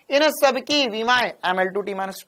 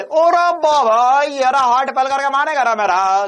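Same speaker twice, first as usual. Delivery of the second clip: mock exasperation; 3 semitones higher, 5 dB louder than usual.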